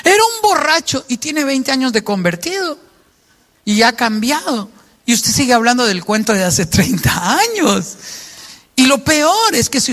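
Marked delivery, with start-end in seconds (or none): 0.0-4.7 high, sharp accusing rant at the father; angry outburst. Acted. Parent exploding at the kids about their father, angry. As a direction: spit out the old grudge, much higher. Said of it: "¿Exploto yo en ira cuando yo llegue?".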